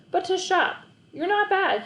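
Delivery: lightly voiced grudging compliment; gruff shopkeeper. A narrator's reading. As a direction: hand out praise grudgingly.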